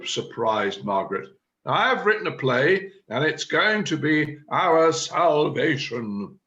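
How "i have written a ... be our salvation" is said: raised, insistent announcement; emphatic proclamation. Acted. Chairman answers a surprised member, emphatic proclamation. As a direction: proclaim it firmly, slowing towards the end.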